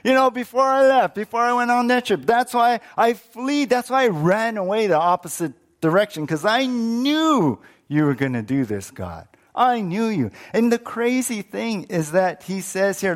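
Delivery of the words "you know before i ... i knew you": raised, hurried self-justifying protest; indignant complaint. Acted. Jonah telling God why he ran away, indignant. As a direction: protest heatedly, leaning on "knew". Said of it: "He's grumbling".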